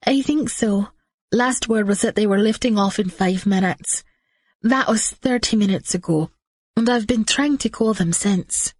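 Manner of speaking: a hint of a nervous assistant; worried young woman. Maggie voiced in the story.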